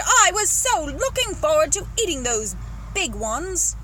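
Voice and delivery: loud, slow, disappointed wail; shouting. Acted. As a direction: shout your disappointment, drawing it out. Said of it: "the Duke shouted".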